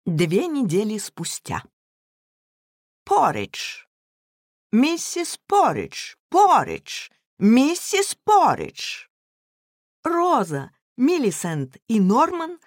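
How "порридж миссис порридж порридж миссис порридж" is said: high, drawn-out shouts of a name; children yelling across the house; calling out. Acted.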